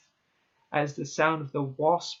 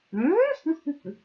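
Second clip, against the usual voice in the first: real high, loud giggle; laugh; 13 semitones higher, 7 dB louder than usual. Real, not acted. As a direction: burst out in a high-pitched laugh. Reader breaks off laughing.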